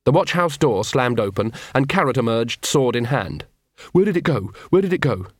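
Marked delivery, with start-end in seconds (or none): 3.9-5.3 urgent, higher, searching call; demanding where it went. Acted. Carrot searching the dark street, urgent and raised.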